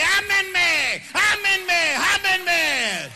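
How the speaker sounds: proclaiming love me, love me; fervent repeated plea. Retold or imitated. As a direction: cry it out as God's longing.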